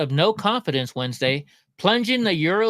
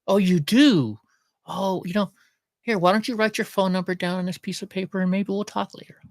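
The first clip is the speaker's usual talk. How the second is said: sweet-talking charmer; 2 semitones higher than usual. Pretend. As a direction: lightly play a smooth host chatting up ladies. Pretend flirting with single woman.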